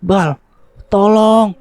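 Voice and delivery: high, desperate cry for rescue; scream for help. A narrator's reading. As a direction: call a friend to save you. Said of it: "Petra terus berteriak meminta tolong". (jeritan minta tolong)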